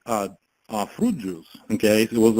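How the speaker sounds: usual speaking voice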